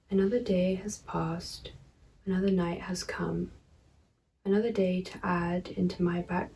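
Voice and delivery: measured poem reading with pauses; poetry reading. Acted. Poet reading own verse to viewers, measured poetry reading. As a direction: read the verse evenly, pausing between phrases.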